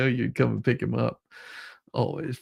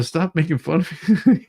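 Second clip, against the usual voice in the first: higher and louder mock complaint; mock whine; 6 semitones higher, 6 dB louder than usual. Imitating him complaining about teasing, mock whine. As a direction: whine it through a laugh. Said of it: "You would say".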